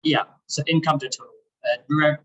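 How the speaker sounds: muffled, boomy bad microphone; like talking from inside a fishbowl. Real, not acted. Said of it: "you sound like you're in a fishbowl".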